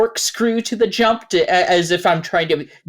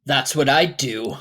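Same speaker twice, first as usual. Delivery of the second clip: wolf voice; 4 semitones lower than usual. Acted. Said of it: "that's my wolf voice".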